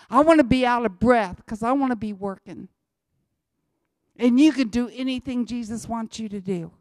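loud, fervent declaration; preaching at full force. Real, not acted. Old missionary declaring his faith, loud and fervent. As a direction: belt it out with conviction. Preacher's climax on dying working.

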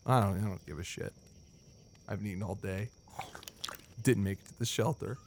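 low, soft mutter; weary mutter. Acted. Hibbs alone by the fire, weary mutter. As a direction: mutter to yourself, worn out.

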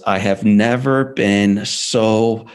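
father telling his burned son he is proud, slow and tender; tender pride. Retold or imitated. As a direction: let each word land slowly, moved. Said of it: "And then he goes".

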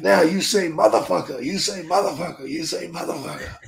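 put-on taunting Japanese accent, fading at the end. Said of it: "He's like".

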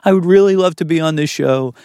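voice way up high. Retold or imitated. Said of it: "my voice went up about four octaves".

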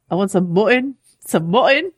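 put-on a light try at a Northern-by-way-of-Irish accent, leaning on mutton; half-hearted Northern-by-way-of-Irish impression of Davos; Davos's Northern-by-way-of-Irish accent. Co-host mimics Davos asking for mutton, lightly Northern-by-way-of-Irish accent. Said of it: "That's how he says mutton".

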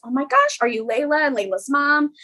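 high, gushing recognition of a stranger; excited surprise. Retold or imitated. Stranger in a car recognizing Layla, excited and high. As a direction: squeal it like you've spotted someone famous.

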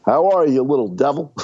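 Obama. Retold or imitated. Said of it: "Obama calling Mark Zuckerberg".

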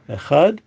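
echad with a firm, sounded final d; emphasized dalet. Shown as a demonstration. Teacher reciting the declaration of oneness, emphatic "echad". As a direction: stress "echad", landing clearly on the closing d. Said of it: "dalet also should be emphasized".

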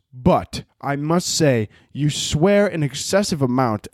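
slow, prim and formal mock reading; prim old-fashioned letter. Mocking a churchgoer's prim DM, slow and formal. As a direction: read it like a stuffy sixteen-hundreds letter. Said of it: "starts off like a fucking email".

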